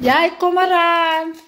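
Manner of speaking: high, loud, drawn-out call; slow, stretched high shout. Real, not acted. Calling the child to come.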